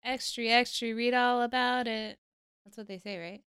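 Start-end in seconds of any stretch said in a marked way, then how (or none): 0.0-2.2 put-on old-time newsie calling out; newsboy shout. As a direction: hawk papers like a street newsboy. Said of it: "A newsie".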